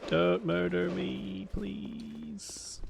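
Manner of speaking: pleading with the monster, small voice; mock pleading. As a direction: beg in a tiny put-on voice. Begs enemy.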